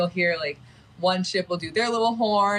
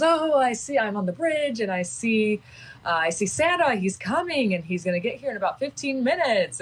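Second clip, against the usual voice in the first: mock captain announcement; 5 semitones higher than usual. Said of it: "He had an accent".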